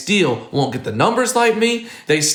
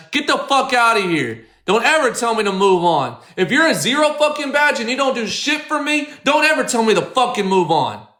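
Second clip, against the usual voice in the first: real anger, raised voice at a troll; angry rant at chatter; 6 semitones higher than usual. Real, not acted. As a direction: tell off the zero-badge viewer hard. Yelling at a chat user.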